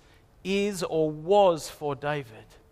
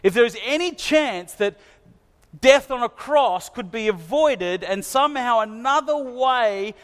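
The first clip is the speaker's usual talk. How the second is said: Jesus praying; 3 semitones higher than usual. Retold or imitated. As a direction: beg God openly, a little raised. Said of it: "crying out".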